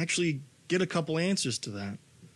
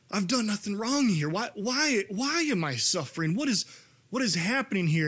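higher, pleading why questions; anguished plea; 6 semitones higher than usual. Acted. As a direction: cry out to heaven asking why. Voicing a sufferer's plea.

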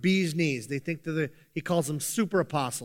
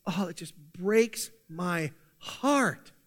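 slow, pained lament with gaps between words; heartbroken Paul; much slower than usual. Acted. Preacher voices Paul grieving for the churches, slow acted heartache. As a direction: draw it out as a heavy-hearted sigh of concern. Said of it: "and Paul says".

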